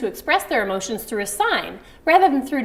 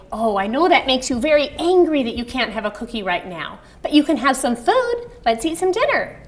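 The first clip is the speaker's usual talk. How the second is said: soothing parent; 3 semitones higher than usual. Shown as a demonstration. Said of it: "you could say".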